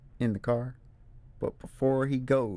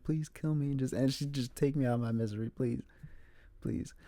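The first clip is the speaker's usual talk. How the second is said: softer, hushed begging; soft desperate plea; 5 dB quieter than usual. Retold or imitated. Trapped girl begging Bear softly, hushed despair. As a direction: beg quietly for release.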